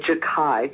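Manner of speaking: Jachai with a hard K, "juh-KAI"; correct pronunciation. Shown as a demonstration. Host correcting their old guess at the name, pronounced with a K. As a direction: say Jachai with K in place of CH. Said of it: "That's how you say his name".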